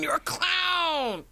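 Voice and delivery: high, slow whisper; breathy whisper, drawn out; whispered clown tease. Acted. Teasing co-host as clown.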